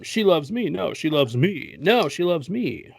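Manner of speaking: hammed-up rivals insisting in turn; playful acted tug-of-war; mock squabble. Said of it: "there's this struggle between them".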